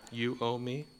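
"You owe me" said through a laugh; mock the grudge while laughing; laughing mock demand. Pastor laughing while mocking a grudge-holder's demand. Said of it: "not collecting that debt".

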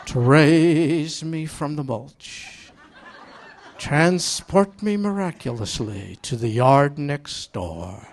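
slow, hammed-up solemn prayer with laughs; mock pious prayer. Preacher praying to avoid neighbors, mock solemn. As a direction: pray grandly, tongue in cheek. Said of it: "So I prayed".

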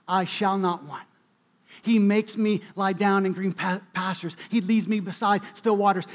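preacher reciting Psalm 23 to his congregation; scripture recitation. Acted. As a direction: recite it gently, like a prayer.

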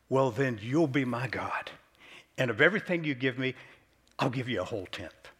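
lightly voiced Jacob setting his terms, quick at the end; retold bargaining terms. Preacher voicing Jacob's terms to God, brisk bargain. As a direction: tick off the deal to God briskly.

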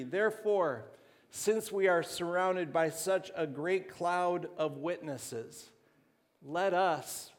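measured, emphatic Bible recitation; scripture reading. Real, not acted. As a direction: proclaim the verse phrase by phrase. Reads scripture aloud.

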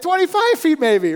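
high, loud imitated yell; shouted estimate. Friends guessing the drop for a climber, shouted. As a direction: holler it up the rock.

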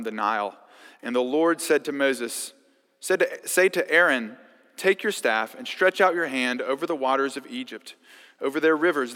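measured public Bible reading; scripture reading. Acted. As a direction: read the passage with weight. Reads Exodus passage aloud.

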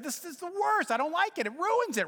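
high, loud mock complaint; hammed-up frustration over the coffee; mock frustrated rant. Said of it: "I said".

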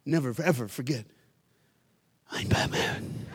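hushed, half-whispered with a smile; a boy comforts his mom; soft Batman line. Retold or imitated. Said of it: "kissed her on the cheek and said".

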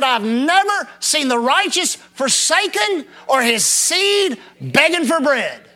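preached shout. Acted. Quotes psalm with shout.

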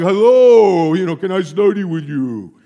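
shy giant asking politely; timid greeting. Retold or imitated. Tall student meekly asking the professor to study, timid. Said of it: "I'm kinda like".

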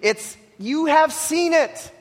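"have" pressed high and slow; emphatic you have seen. Shown as a demonstration. Preacher pressing the congregation that they have seen it. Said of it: "this emphasis on the word you".

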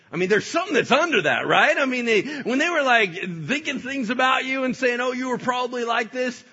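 rising indignant goading; worked-up tempter. Acted. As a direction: stir up outrage loudly. Satan working up offense.

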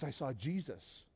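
very soft, slow, hushed; awed confession. Retold or imitated. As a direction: confide it quietly, imitating an awestruck friend. Friend's awed confession, retold.

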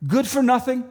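high, sharp scoffing hen; scornful hen. Acted. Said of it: "said the hen".

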